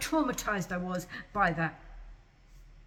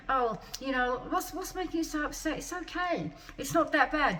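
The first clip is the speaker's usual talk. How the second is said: mock nurse; 3 semitones higher than usual. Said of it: "And then she just like".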